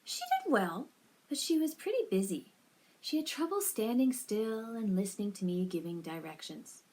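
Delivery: lightly acted cheery coach; bad acting.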